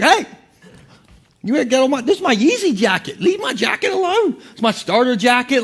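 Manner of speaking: whiny complaint about his jacket, with a brief yell; protesting Joseph. Acted. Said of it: "He's like".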